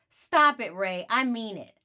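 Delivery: high, loud stop it; girl loudly ordering her teasing brother to stop; firm shout. Acted. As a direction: put your foot down with him.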